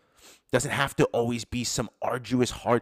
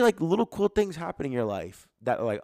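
ordinary delivery

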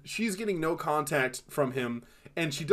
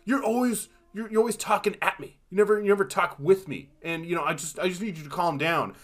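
mock husband; 5 semitones higher than usual. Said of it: "and is like".

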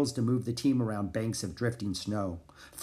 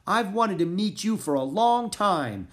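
high, raised, gushing voice; excited shout; 7 semitones higher, 4 dB louder than usual. A narrator's reading. Annie hugging Balto at last, excited shout. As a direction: tell your hero eagerly. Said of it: "she shouted".

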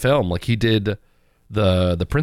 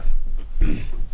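coughing fit. Real, not acted. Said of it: "I'm coughing a lot".

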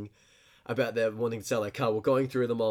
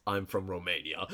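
put-on low, soft Terminator-like Romanian accent; badly imitated Romanian, sliding into Terminator; mock Romanian accent; 6 semitones lower, 8 dB quieter than usual. Car seller answering where he's from, in a mock Romanian accent. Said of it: "No, that was Terminator".

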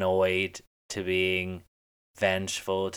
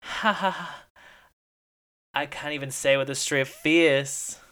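mock fake laugh; 6 semitones higher than usual. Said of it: "and I quote".

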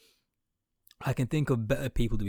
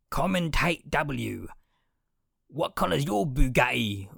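mocking fan voice; 4 semitones higher, 4 dB louder, slower than usual. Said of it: "they'll say shit like".

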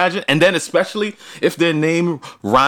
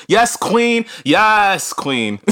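hype cheer; 4 semitones higher, much slower than usual. Pretend. Hyping up the co-host.

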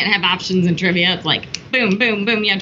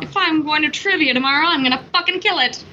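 mock-confident viewer, pitched up; higher, pumped-up pretend viewer; impressed viewer; 5 semitones higher than usual. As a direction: play an eager listener hyped for trivia. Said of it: "I would be like".

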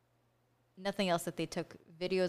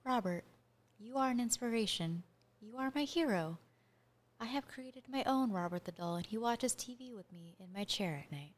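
dramatic voice; 3 dB quieter than usual. Pretend. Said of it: "read this in a really dramatic voice".

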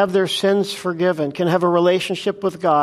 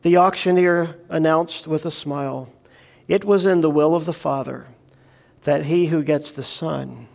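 sermon storytelling voice with voiced quotes; story narration. A narrator's reading. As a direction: tell the parable to the congregation. Preacher tells illustration story.

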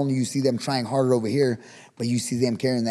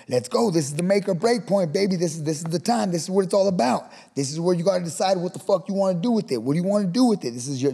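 coach hollering; 6 semitones higher than usual. Retold or imitated. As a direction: fire the kids up at the make-or-break point. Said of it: "coaches right there walking around screaming".

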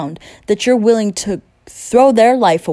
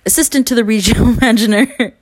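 laughing through the joke line; a real laugh breaking into the quote; 2 semitones higher, faster than usual. Real, not acted. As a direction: crack up mid-line.

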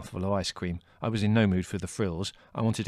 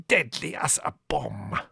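grim warning; 4 semitones higher, slower than usual. A narrator's reading. Costi warns grimly.

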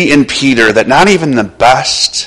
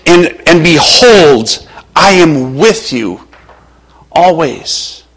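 reassuring promise; slower than usual. Retold or imitated. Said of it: "He goes".

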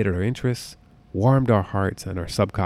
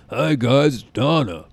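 mocking Donna; 3 semitones higher, 5 dB louder, slower than usual. Making fun of the show with his wife, mock Donna voice. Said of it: "make fun of her".

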